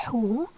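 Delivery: "hu" as an Arabic h with an oo vowel; demonstrated pronunciation. Shown as a demonstration. Teacher shows how dhamma makes it "hu", demonstrated pronunciation. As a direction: sound out "hu" as one isolated syllable. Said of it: "so it's pronounced like".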